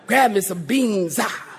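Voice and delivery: stretched words with a puffed "ah"; preacher voice. Retold or imitated. Shopper in the food line, mock preacher cadence. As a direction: lightly parody pulpit cadence. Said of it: "nobody walks up".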